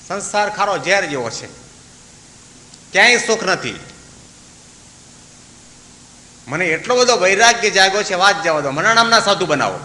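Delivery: fervent pleading. Acted. Farmer begs Swami for initiation.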